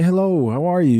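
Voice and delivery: sweet polite lady. Pretend. Host imagining a lady answering in the past, polite lilt. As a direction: put on a friendly lady's hello.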